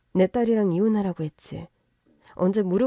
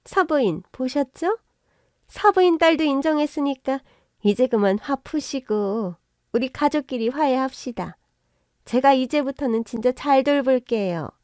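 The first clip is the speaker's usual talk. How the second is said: fawning plea; 4 semitones higher than usual. Acted. Son-in-law fawning for reconciliation.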